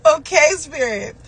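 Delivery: slow, tearful high "oh my gosh"; overwhelmed exclamation. Retold or imitated. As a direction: relive being stunned by a sign. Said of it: "I'm just like".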